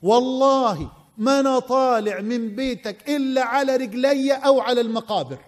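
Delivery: a hint of Egyptian colloquial; Egyptian dialect. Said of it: "باللهجة المصرية يقول له".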